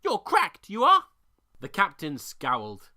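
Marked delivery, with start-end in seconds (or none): 0.0-1.0 high, loud scornful bird voice; croaking raven. A narrator's reading. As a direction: sneer like a smug raven. Raven insulting pirates.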